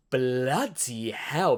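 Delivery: slow, drawn-out deadpan bloody hell. Retold or imitated. To the book's gushing over heroes, slow unimpressed sigh. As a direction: drag it out, unimpressed. Deadpan reaction to godlike praise.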